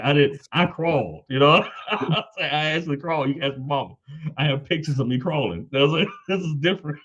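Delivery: high, laughing mock defense; laughing protest. A husband laughingly defending himself to his wife, high-pitched. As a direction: plead your case through laughter.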